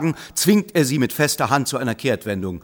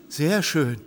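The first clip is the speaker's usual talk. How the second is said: dreamy; 3 semitones higher than usual. Acted. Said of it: "sagt die Frau träumerisch".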